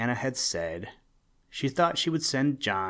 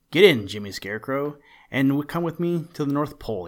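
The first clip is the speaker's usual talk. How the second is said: loud, raised storybook cry; hearty call; 5 semitones higher, 7 dB louder than usual. A narrator's reading. Santa invites the scarecrow onto the sledge, hearty call. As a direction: call out louder, lifting higher as it goes on. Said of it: "he cried".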